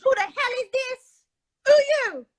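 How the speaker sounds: put-on high Caribbean accent; Caribbean accent, demanding; retold Caribbean voice, asking who he is. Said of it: "this is my Caribbean voice".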